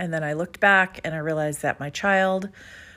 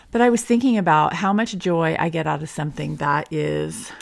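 talking with a retainer in; wearing a retainer. Real, not acted. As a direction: speak around a dental retainer. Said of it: "taking my retainers out".

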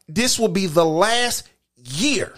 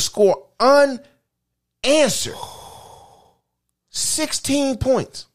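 disbelieving fan; 6 semitones higher, much slower than usual. Real, not acted. Furious fan rant about Michigan.

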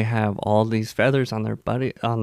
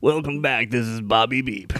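DJ voice. Pretend. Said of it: "I love that voice".

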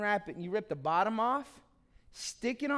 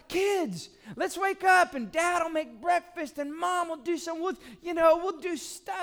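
higher-pitched cheery parent wake-up call; parent rousing kids; 5 semitones higher than usual. Retold or imitated. Parents calling kids on Christmas morning, upbeat rousing. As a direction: pitch it up to rally the household.

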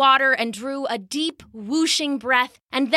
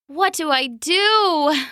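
worried to himself; 4 semitones higher, slower than usual. Acted. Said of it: "he said to himself".

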